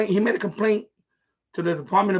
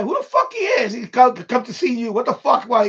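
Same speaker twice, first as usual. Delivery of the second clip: retold outrage; 3 semitones higher, 5 dB louder than usual. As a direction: fire it at him like you can't believe it. Retold confronting the meddling tenant.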